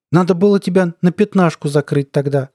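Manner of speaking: high, pleased taunt; almost gleeful. A narrator's reading. Colonel taunting the veteran about prison, almost gleeful. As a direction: say it with near delight. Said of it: "почти радостно сказал Хахашуткин".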